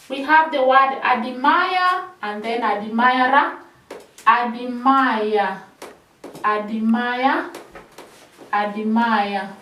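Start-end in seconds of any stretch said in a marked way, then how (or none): 4.2-9.5 drill repetition. Shown as a demonstration. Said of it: "That is how we drill admire".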